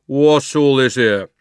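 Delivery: loud, slow official demand; important policeman. A narrator's reading. Policeman questioning the crowd, slow, loud and pompous. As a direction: draw it out with heavy authority.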